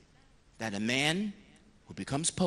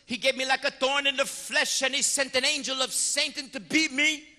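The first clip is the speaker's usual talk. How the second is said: lively Paul; 10 semitones higher, 4 dB louder than usual. Retold or imitated. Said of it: "He said".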